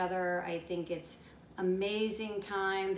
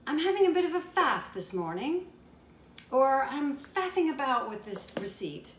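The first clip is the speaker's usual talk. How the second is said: higher-pitched, lightly put-on British accent; 5 semitones higher, 5 dB louder than usual. American vlogger showing viewers British slang, in a light British accent. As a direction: lift it into a mild mock-British lilt. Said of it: "as the British say".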